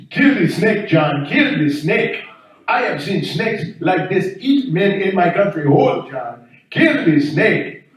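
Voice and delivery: urgent pleading in a mock African accent; frantic African neighbor. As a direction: beg for rescue in a put-on African accent. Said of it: "crying like a bitch".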